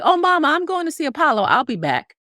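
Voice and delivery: put-on high, fast, cheerful child voice; excited little girl. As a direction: announce a trip to see Apollo brightly. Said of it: "I was like".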